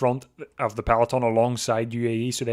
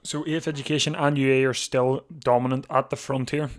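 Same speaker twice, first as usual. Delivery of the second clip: losing his voice; strained, hoarse commentary; 2 semitones higher, 4 dB louder than usual. Real, not acted. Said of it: "I'm losing my voice".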